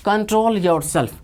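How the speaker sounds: slow model take. Shown as a demonstration. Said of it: "क्या कहते हैं".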